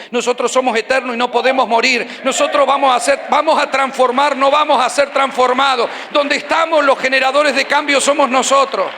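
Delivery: loud, declaiming preacher; preaching at full force. Real, not acted. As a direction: proclaim it to the whole church.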